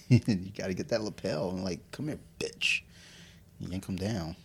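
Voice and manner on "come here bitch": mock growl. Yanking opponent by lapel.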